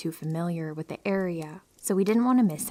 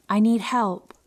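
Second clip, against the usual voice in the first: urgent, raised pleading voice; desperate plea; 3 semitones higher, 6 dB louder than usual. Retold or imitated. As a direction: beg for help, rising loud. Stranger begging at car window.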